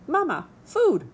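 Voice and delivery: high, loud chick squeal; hungry gosling. Acted. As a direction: shriek for food like a hatchling. Gosling cries to Roz.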